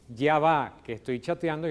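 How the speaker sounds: defiant. Acted. Child busy chatting answers parent, mildly defiant. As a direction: brush off a parent with mock defiance. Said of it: "digamos, desafiante".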